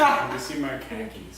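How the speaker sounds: slow Boston accent, khakis sounding like car keys. Shown as a demonstration. Asking for lost car keys in a mock Boston accent. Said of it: "in Bostonian accent".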